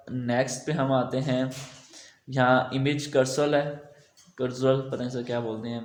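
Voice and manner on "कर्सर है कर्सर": "कर्सर" said as a rough guess at carousel; unsure pronunciation. Real, not acted. Tutor naming a slider widget he can't pronounce, unsure pronunciation. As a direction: attempt "कर्सर", unsure of the English word. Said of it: "मुझे से pronounce नहीं हो रहा".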